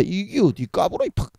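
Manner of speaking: a hint of a Gyeongsang big brother scolding; mock-threaten a cheeky little brother; dialect scolding big brother. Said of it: "이렇게 하듯이 ... 경상도 사투리로 우리 형님과 같은 어투로". (형님이 동생을 나무라는 듯한 가벼운 사투리 말투)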